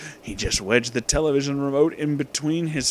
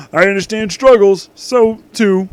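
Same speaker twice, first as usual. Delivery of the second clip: loud; 6 semitones higher, 8 dB louder than usual. Acted. Character declares struggles loudly.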